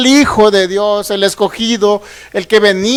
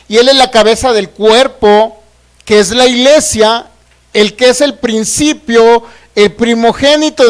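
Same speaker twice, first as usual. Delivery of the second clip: measured, emphatic verse in separated phrases; scripture reading; 3 dB louder than usual. Real, not acted. Preacher reading Colossians to the congregation, slow proclamation. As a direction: proclaim each phrase slowly with weight.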